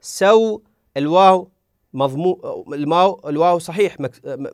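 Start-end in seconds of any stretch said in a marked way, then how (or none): 0.0-1.5 سو said as saw with the diphthong held; slow contrastive demo; leen vowel. Shown as a demonstration. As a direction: stretch the aw of سو. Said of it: "سو يختلف عن سو".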